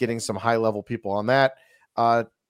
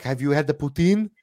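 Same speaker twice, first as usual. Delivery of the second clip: Canadian voice; 6 semitones higher, 4 dB louder than usual. Retold or imitated. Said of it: "'cause that's how they speak".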